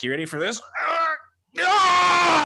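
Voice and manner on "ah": high shouted ah for the trick; mock magician's yell; magic shout. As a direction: startle them with a sudden yell. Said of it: "This is my David Blaine trick".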